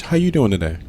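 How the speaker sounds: mock-pleasant, dropped back to normal volume; nice afterwards. Exaggerating partner softening an insult, pleasant afterthought. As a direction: tack it on as casual niceness. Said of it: "she throws in the nice afterwards".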